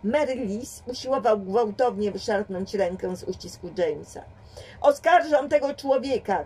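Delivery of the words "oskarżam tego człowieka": high, loud accusation; shouting. A narrator's reading. James accuses the detective before the crowd, loud shouting. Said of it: "krzyczał James".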